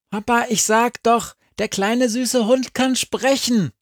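hohe, aufgeregte Kinderstimme. A narrator's reading. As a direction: ein kleines Kind petzt dem Vater. Child tells father. (hohe Kinderstimme)

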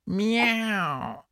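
drawn-out cat meow; a slow, falling miaow. Acted. Cat character meows.

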